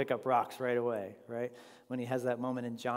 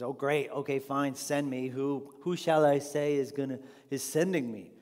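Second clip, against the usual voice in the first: reluctant Moses; 6 dB louder than usual. Retold or imitated. And he says.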